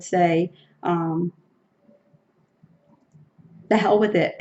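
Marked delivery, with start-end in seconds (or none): 3.7-4.3 laughing. Real, not acted. Laughs while saying it.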